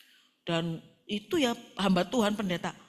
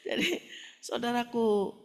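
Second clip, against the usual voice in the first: laughing. Real, not acted. Still laughing while resuming.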